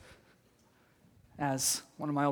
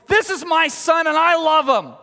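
high, loud voice from heaven; the Father's voice, loud and raised; booming heavenly voice; 10 semitones higher, 9 dB louder than usual. Retold or imitated. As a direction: proclaim it from the sky. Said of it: "you hear this voice".

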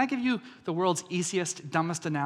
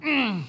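pouting hum; 6 semitones higher than usual. Retold or imitated. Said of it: "when he says no".

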